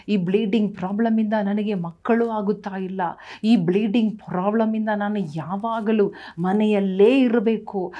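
rising, impassioned preaching voice; fervent preaching. Acted. Pastor preaching healing to the congregation, fervent. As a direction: preach healing to the crowd with fire. Full-force healing sermon.

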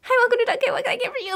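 high, loud customer-service greeting over music; shouting the order greeting over a coworker's loud music; loud drive-thru greeting. Retold or imitated. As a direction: belt the greeting over the noise.

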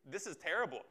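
a mild, deflated sigh of despair. Retold or imitated. Preacher voicing a depressed believer, a touch of despair. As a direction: say it like you've given up. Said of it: "a despairing depression".

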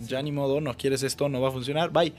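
retold polite, restrained send-off; super respectful. Boyfriend asking his ex to leave, super respectful. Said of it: "súper respetuoso así de".

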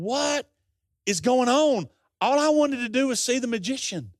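high-pitched retold bewilderment; bewildered kid. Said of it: "As a seven-year-old kid".

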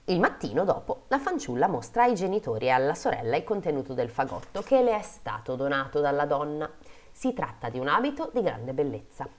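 measured fairy-tale reading; story narration. A narrator's reading. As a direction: read it out like a storyteller. Reads a fairy tale aloud.

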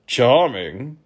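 meek courtier; Undersecretary's offer. Acted. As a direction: submit it humbly. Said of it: "submitted the Undersecretary".

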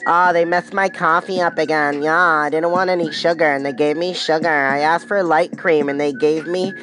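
a lightly voiced griping coffee drinker; whiny complaining. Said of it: "complaining, bitching, and moaning".

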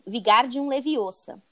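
slow, careful Vigardium Leviosa; spell pronunciation. Shown as a demonstration. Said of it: "O feitiço é".

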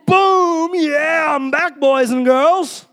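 high, loud triumphant whoop; jubilant, drawn-out victory cry; excited celebration. Acted. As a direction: announce your big comeback to the room. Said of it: "I was so excited".

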